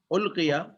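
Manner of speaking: القیا said as ulqiya, opening on u; passive form demo. Shown as a demonstration. Teacher shows students the passive form القیا. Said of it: "تو اب یہ ہو گیا passive voice.".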